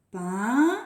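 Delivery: "Peinture" with pein long and rising, long pause, ture; syllable counting. Shown as a demonstration. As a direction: count out "Peinture" for children to follow. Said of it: "Vous faites avec moi".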